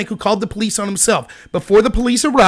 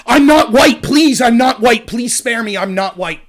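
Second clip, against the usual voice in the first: mock pleading; slower than usual. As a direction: beg for mercy in sarcastic imitation. Acting out a plea to be spared.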